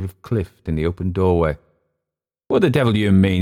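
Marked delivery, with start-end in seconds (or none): 2.5-3.4 louder, higher challenge; mildly indignant demand. A narrator's reading. Emile woken by Clift bursting in, demanding. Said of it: "he demanded".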